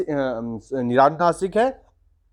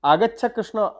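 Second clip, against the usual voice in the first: raised call, last syllable stretched; summoning with a long final vowel; calling from afar; 5 semitones higher than usual. Shown as a demonstration. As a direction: call Krishna over a distance. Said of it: "जैसे".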